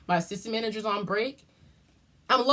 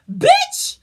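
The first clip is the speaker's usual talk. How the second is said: sudden high shouted laugh; 10 dB louder than usual. Real, not acted. Telling her viewers, a loud laughing shout. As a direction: blurt it out with a big laugh.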